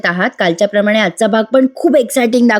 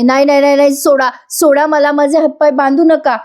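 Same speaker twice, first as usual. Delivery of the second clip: desperate screams; 5 semitones higher than usual. Retold or imitated. Priya screaming as goons tie her hands, panicked. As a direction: cry out for your life against being tied. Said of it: "Priya ओरडत असते जीवाच्या आकांताने".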